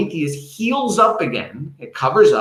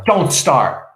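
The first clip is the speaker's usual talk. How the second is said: a mild acted yell, slightly raised; 3 semitones higher, 4 dB louder than usual. Husband warning off his wife, mildly yelling. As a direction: cut her off with a half-raised yell. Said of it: "Walter yelling".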